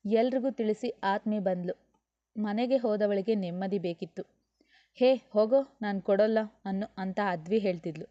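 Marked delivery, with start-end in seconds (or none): 4.9-6.4 put-on a little girl snatching back her toy; sing-song no you can't have it; bratty refusal. Child refusing brother in quarrel.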